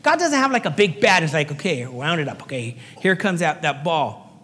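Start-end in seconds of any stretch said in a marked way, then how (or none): 1.5-4.4 low, lightly voiced ballplayer winding up; a batter's wind-up patter, lower; mock pitcher. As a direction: pastor plays God as a baseball batter, mock wind-up.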